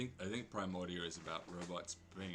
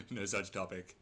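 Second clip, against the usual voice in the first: parser voice; 3 dB louder than usual. Pretend. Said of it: "a parser version of Primordia".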